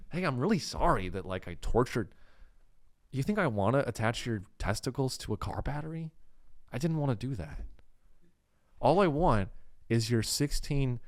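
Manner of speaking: soft, apologetic Midwest kidnapper; a hint of Midwest politeness, quietly sorry; Todd. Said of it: "He's, like, kinda Midwest".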